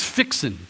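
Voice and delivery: "fixin'" with dropped g, fix-un; Southern fixin'. Shown as a demonstration. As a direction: say "fixin'" the Texas way. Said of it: "another one is".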